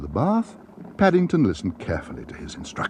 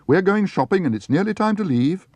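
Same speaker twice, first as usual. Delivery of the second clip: calling out; 11 semitones higher, 4 dB louder than usual. A narrator's reading. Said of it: "called Judy".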